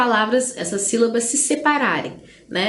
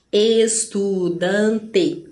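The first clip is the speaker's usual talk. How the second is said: ESTUDANTE very slowly as es, tu, dan, te; split into syllables; 3 semitones lower, much slower than usual. Shown as a demonstration. Teacher showing polysyllables, estudante split very slowly. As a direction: draw estudante out in four beats, es, tu, dan, te. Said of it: "com quatro ou mais".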